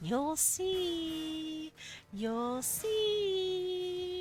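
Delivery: ominous echoing whisper. Warning the other speaker, who doubts it: ominous echoing whisper. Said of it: "I am whispering that, and it is echoing and ominous".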